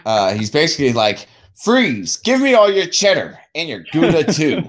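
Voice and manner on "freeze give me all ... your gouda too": mock hold-up in a bad Hispanic accent, raised pitch; high, badly faked Hispanic accent. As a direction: imitate a robber with a hammy Hispanic accent. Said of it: "He's using a really bad Hispanic accent too".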